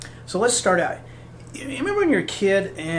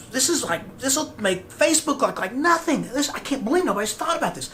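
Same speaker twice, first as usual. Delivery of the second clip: higher and rising with enthusiasm; mock excitement; 4 semitones higher than usual. Dreamer imagining a world-changing business, pitched up with excitement. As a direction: gush with growing pitch as the idea takes off.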